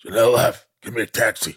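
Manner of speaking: loud New York cab-hailing voice; New York accent. Acted. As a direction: bark it like a New York cabbie. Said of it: "You're a New Yorker now".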